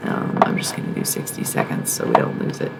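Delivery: soft whisper to the viewers. Real, not acted. Telling viewers about a short break in a whisper. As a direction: whisper it so the channel isn't lost.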